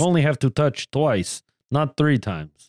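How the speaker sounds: put-on Russian accent. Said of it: "in a Russian accent".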